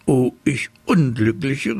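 a touch of tearful wailing; wailing lament. A narrator's reading. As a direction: lament it like a dismayed mother. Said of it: "rief sie und fing an zu weinen".

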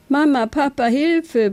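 acted storybook shout of alarm; desperate yell. A narrator's reading. Young badger calls his parents as his cap flies off, desperate yell. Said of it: "brüllte Dani und schaute verzweifelt".

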